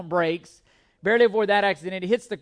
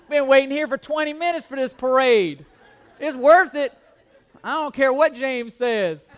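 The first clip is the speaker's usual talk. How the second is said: loud, higher, laughing insistence on the spot; hammed-up stubborn yelling; playful louder defiance, laughing through it; mock defiant shout; 5 semitones higher, 7 dB louder than usual. Mock quarrel over parade spot.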